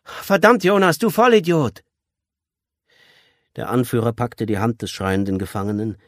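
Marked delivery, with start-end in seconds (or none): 0.0-1.8 loud, high shout of abuse; exasperated, insulting holler; angry call. A narrator's reading. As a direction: yell at him from the back. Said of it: "rief aus dem Hintergrund".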